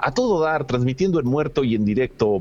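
high, cheerful cartoon line; cartoon character voice. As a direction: voice the cartoon sidekick. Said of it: "Luego Vane contesta".

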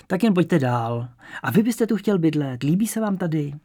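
put-on welcoming old landlady, curious; elderly landlady. Old landlady inviting the young man inside, lightly welcoming.

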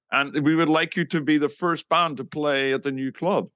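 lightly imitated Dutch accent; polite mock Dutch caller. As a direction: play the Dutch promoter making an offer. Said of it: "this guy with a Dutch accent".

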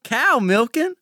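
hick voice. Acted. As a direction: play up the farm-boy hick. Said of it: "favorite hick of the family".

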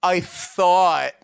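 slow, drawn out with pauses; deliberate mother imitation. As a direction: spin out the roundabout answer slowly. Mother's roundabout answer, retold.

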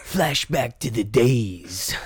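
slow, weighty movie-trailer read; slow dramatic narrator for the card shop ad; dramatic trailer narration. Acted. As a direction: pull them into a nostalgic flashback. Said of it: "Do Country Cards advertisement".

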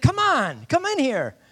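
high, loud insistent holler; calling him over. Retold or imitated. Buddy inviting him into the bar, loud call. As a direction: beckon a friend from afar.

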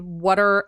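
"what are" run together as what're; contracted "what are". Shown as a demonstration. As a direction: slur "what are" into one word, wutter. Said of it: "an apostrophe R E".

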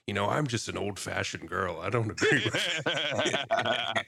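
a hint of a gruff man; manly voice. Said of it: "In, like, a real manly voice".

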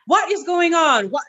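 high, confused question; bewildered. Retold or imitated. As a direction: ask in stunned confusion. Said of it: "I was just like".

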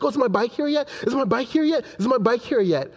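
impatient child voice, lightly mimicked; pestering little daughter. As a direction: imitate an eager child nagging Dad. Father voices daughter pestering him repeatedly.

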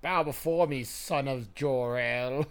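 slow, grand evil overlord; villain voice. Pretend. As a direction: command them like a tyrant. Villain impression.

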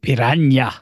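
"piranha" said with an NY sound, pi-RAN-ya; affected pronunciation. Shown as a demonstration. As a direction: pronounce "piranha" as pi-RAN-ya, showily. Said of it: "I like to pronounce it".

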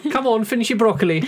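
posh mother calling. Acted. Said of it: "posh girl's name".

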